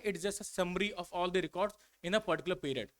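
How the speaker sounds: reads the definition very slowly, word by word; slow dictation. Shown as a demonstration. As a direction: dictate each word for the class to copy.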